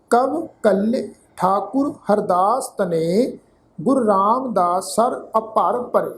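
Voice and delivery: slow, measured chanting of the verse; slow devotional reading; scripture recitation. Acted. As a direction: recite each phrase with weight and pauses.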